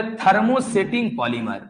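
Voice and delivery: very slow, drawn-out dictation. Shown as a demonstration. Teacher dictating the term for students to write down. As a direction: stretch each syllable so they can write. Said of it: "लिखो".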